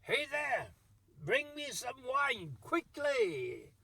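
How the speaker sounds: a monk barging in and shouting for wine; mock shout. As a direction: bellow it at the wine seller in a hammed-up way. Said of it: "and shouted".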